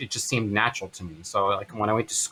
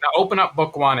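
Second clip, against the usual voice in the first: lightly imitated mom; a hint of mom giving orders; smoker mother's voice; 5 semitones higher, 4 dB louder than usual. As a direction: instruct in a higher mother's voice. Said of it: "I always wanna do her voice".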